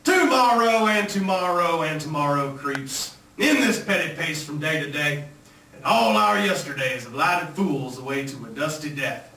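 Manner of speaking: put-on Southern accent, theatrical verse recital; Shakespeare declaimed with a Southern twang. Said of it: "this is my impression of William Shakespeare".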